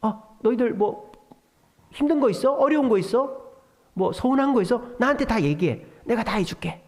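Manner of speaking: tender reassurance. Pretend. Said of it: "이러는 거예요".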